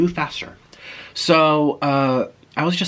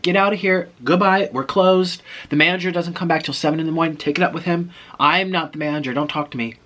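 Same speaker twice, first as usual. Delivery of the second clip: mock brusque dismissal, pitched up; shooing away; 6 semitones higher, 3 dB louder than usual. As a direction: shoo customers off like a fed-up clerk. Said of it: "They shooed everyone".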